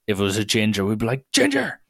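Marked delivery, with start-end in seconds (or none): 1.3-1.8 high mock yell out the window; teenage heckler's cry, pitched way up; retold scream. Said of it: "we would just scream stuff".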